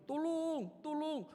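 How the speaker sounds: high, long-drawn loud calls; mock cry for help. Fallen Oma calls out from inside, high drawn-out mock cry. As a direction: wail for help, stretching the vowel.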